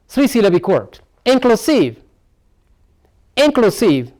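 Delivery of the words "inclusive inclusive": "Inclusive" pitched up, then falling at the end; "Inclusive" as a careful model for learners; stressed-syllable demo. Shown as a demonstration. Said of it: "The stress lies on here now".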